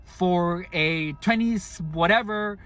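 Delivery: impatient customer repeating himself; mock yell. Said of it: "they would yell".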